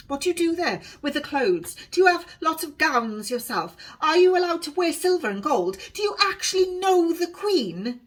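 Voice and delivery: put-on a wide-eyed girl who can't stop asking; breathless wonder, rising as she goes; excited young girl. Honesty's questions tumble out.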